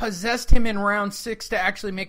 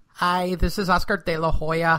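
put-on nasal voice, lower pitch, slower pace; 3 semitones lower than usual. Telling a co-host how he really sounds: nasal Oscar De La Hoya impression. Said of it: "he's really nasally".

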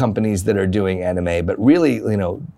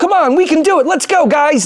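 put-on very high, young heroic anime lead voice; 5 dB louder than usual. Voicing an energetic young protagonist rallying a team before a fight. Young anime hero voice. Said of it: "that young hero voice".

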